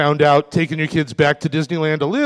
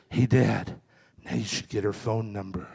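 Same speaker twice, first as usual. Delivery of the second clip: leaning-in hush; 9 semitones lower, 11 dB quieter than usual. Retold or imitated. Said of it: "she leans over and she goes".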